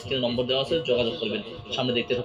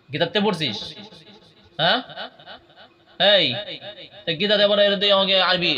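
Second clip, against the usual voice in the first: angry; 6 semitones higher, 4 dB louder than usual. Acted. Exorcist scolding jinn.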